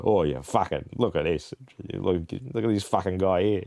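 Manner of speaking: imitating a strong Australian accent; lightly mocking a broad Aussie bloke. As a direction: put on a thick Aussie accent. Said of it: "like, I have an accent, there was this one guy".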